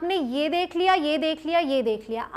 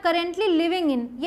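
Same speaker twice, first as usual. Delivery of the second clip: slow spelled-out phrase; much slower than usual. Shown as a demonstration. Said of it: "तो ये जो है ना".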